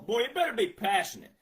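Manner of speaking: normal talking voice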